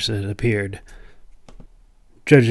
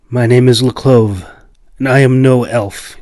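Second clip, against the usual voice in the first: cold reply; 7 dB louder than usual. Acted. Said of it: "he replied coldly".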